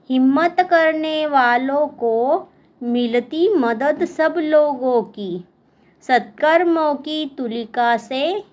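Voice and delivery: measured classroom verse reading; poem recitation. Acted. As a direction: recite it line by line, pausing after each. Reads the poem aloud to pupils. (कविता पाठ)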